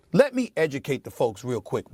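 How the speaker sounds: usual speaking voice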